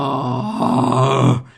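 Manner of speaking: long low groan; weary groan. Real, not acted. Comedian groaning after retelling the iPhone ordeal, weary. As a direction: let out a long, low, drawn-out "oh".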